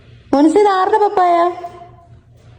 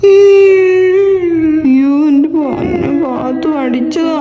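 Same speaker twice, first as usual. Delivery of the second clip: long drawn-out wail of sympathy; mock pitying; 3 semitones lower, much slower than usual. Mother pitying papa whom the child hit, mock pitying. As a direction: draw it out in hammed-up pity.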